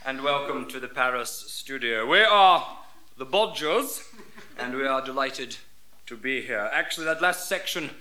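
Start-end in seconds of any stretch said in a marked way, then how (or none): 0.0-6.7 lightly clipped BBC announcer English. Acted. Comedian switching from Scottish skit to BBC English. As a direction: sound like a proper BBC presenter. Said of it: "we wouldn't talk like that down here at the B B C".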